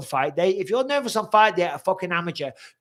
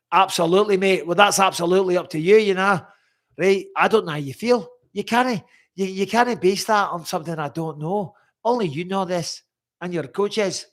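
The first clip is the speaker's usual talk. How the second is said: higher-pitched, badly faked Scottish accent; hammed-up Scottish, lifted in pitch; terrible Scottish accent; 4 semitones higher, 4 dB louder than usual. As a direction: put on a bad, lively Scottish accent. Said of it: "Terrible Scottish accent".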